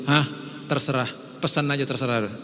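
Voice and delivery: bored spouse. Retold or imitated. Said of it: "Ngomongnya seperlunya".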